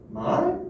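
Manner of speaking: 말 held long on a sharply rising pitch; long vowel. Shown as a demonstration. Teacher showing the long vowel in 말 to class, drawn out. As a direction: draw out 말 long with a rising tune. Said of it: "그 말을 길게 발음한단 말이에요".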